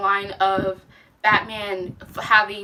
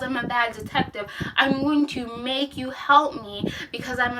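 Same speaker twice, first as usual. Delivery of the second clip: mock ditzy detective. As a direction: parody her as clueless. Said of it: "she's like".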